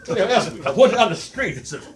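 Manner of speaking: a loud, laughing stand-up Rodney; Rodney Dangerfield impression. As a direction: bark out the no-respect gripes. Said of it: "Rodney Dangerfield".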